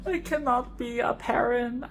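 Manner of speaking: high, laughing through the words; giggly exasperation; laughing confession. Real, not acted. Laughing at her own outburst.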